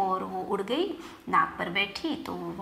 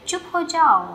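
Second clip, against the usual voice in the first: louder, higher, mildly angry lion; storybook lion's sharp order to be silent; 6 semitones higher, 7 dB louder than usual. A narrator's reading. Lion silencing the pestering fly, mildly angry. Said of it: "उसका और गुस्सा बढ़ गया".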